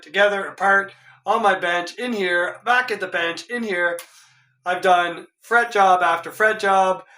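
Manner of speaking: ordinary delivery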